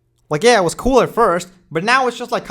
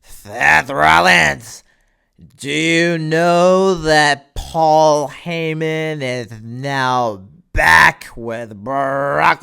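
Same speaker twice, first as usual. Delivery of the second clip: mock Cody Rhodes; 2 semitones lower, much slower than usual. Mocking Cody Rhodes to Seth Rollins, slow drawn-out lines. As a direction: stretch every word like a dramatic promo. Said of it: "Cody Rhodes being like".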